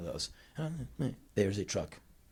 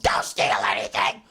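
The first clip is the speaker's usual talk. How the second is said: low stern parental warning; mom's stern order; 6 semitones lower than usual. Retold or imitated. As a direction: warn the kid off like a strict mom. Mom warning son before leaving.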